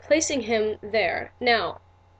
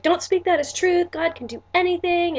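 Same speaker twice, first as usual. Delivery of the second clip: much higher, louder mock churchy friend; imitating preachy friends; 8 semitones higher, 3 dB louder than usual. Friends correcting her about infertility, in a high, louder mock voice. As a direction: parrot the faith-speak friends with a pitched-up voice. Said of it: "supernatural, flowing in the spirit kind of friends are like".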